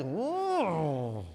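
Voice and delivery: long falling mock wail; drawn-out "ooh" of kids squabbling; imitated fighting wail. Imitates girls fighting over pen.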